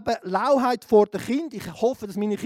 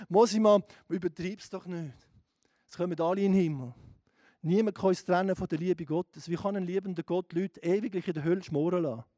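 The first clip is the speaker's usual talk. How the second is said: dismissive Christians; 5 semitones lower, 3 dB quieter than usual. Retold or imitated. Quoting dismissive fellow Christians.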